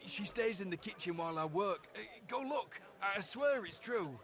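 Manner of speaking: afraid. Acted. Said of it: "You expect him to be afraid".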